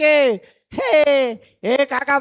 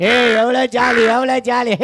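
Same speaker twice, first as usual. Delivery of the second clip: excited cry; 3 dB louder than usual. Acted. Goat freed, celebrating.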